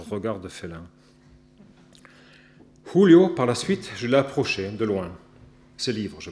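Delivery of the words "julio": Julio launched high and loud on a blown H; puffed throaty H. Retold or imitated. Writer echoing the lady's way with the name, puffed H. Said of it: "un H puissamment soufflé du profond de la gorge".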